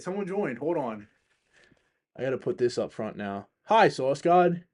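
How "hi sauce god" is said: drawn-out greeting. Real, not acted. Greeting a viewer who joined.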